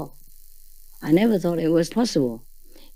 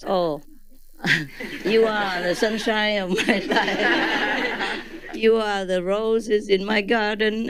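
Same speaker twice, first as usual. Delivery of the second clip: slow, lightly crooned flattery, half laughing; mock romantic suitor; 5 semitones higher, slower than usual. A man dodging his proposal with slow flowery compliments. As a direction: play a suitor gushing instead of proposing, slowly. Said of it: "like a man who wants to propose".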